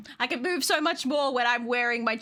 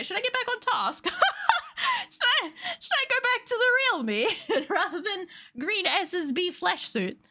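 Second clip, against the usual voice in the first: cute model voice; 11 semitones higher than usual. Acted. Talks in borrowed model voice.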